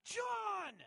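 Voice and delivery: sudden, high-pitched startled yell of a name; full-volume alarmed shout, imitating a wife; wife's yell. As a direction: scream the name at the top of your lungs. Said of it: "She just yells".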